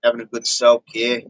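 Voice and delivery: casual attempt at an Australian accent; lightly put-on Aussie twang. Shown as a demonstration. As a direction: try a relaxed Australian accent. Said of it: "that might be a little Aussie".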